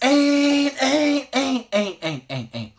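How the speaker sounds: high duck call, tapering down; hail call. Shown as a demonstration. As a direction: start high on ain't, then taper down. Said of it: "So, once again".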